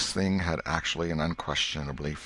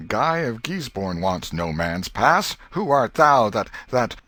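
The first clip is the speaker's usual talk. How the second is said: boyish mock knight; 4 semitones higher, 6 dB louder, slower than usual. Boy acting Guy of Gisborne.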